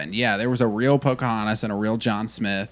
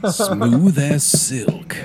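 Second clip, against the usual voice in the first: slow breathy whisper; sexy whisper; much slower than usual. Pretend. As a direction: whisper it slowly like silk. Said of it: "Smooth and sexy".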